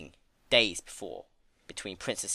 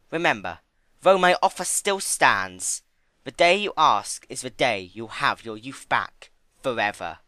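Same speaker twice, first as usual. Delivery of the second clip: Discord's lingering offer; 2 semitones higher, 8 dB louder than usual. Acted. Discord reminding Fluttershy his offer still stands.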